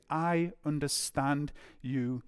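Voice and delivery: slow, softening, understanding tone; gentle empathy. Acted. Jesus to Peter after his denial, slow gentle empathy. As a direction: console slowly, easing down at the end. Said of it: "It's eyes of empathy".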